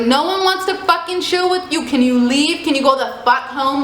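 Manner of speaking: high, heated retold yelling at the guys; mock angry yell. Girl yelling at stalkers to leave, angry. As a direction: tell the creeps to go home, fed up.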